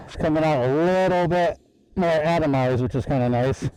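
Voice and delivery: muffled voice inside a respirator mask; talking muffled behind a spray respirator; through a respirator. Real, not acted. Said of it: "I put my microphone in the respirator".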